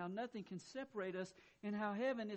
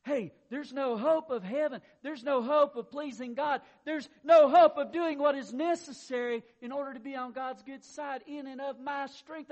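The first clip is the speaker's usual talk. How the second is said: loud, high preaching cry on "hope"; preaching shout; 5 semitones higher, 13 dB louder than usual. Real, not acted. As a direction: hammer "hope" each time at full force.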